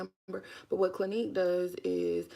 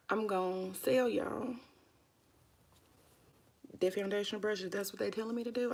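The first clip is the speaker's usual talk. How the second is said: whispered aside; 4 dB quieter than usual. Acted. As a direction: whisper it like a secret. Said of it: "I'ma just whisper it like that".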